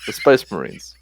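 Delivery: mildly exaggerated impression of the American president; measured presidential speech, lightly imitated; Obama. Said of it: "Okay, here's the Obama".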